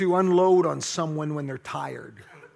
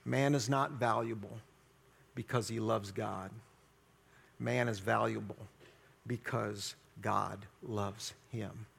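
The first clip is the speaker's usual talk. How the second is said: a hint of an old German theologian, lower; German accent; 6 semitones lower, 7 dB quieter than usual. Theologian answering the question in a mild German accent. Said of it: "in a deep German accent".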